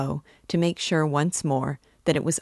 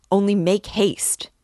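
higher, louder urgent burst; urgent thought; 5 semitones higher, 5 dB louder than usual. A narrator's reading. Hidden man's thought flashes through his mind, urgent burst. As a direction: urge them on, high and loud. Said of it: "was the thought that flashed".

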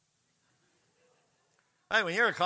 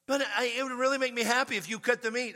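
higher, quicker wheedling plea; pleading date; 6 semitones higher, faster than usual. Retold or imitated. Date begging him to cut her meat, higher coaxing plea. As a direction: coax him sweetly.

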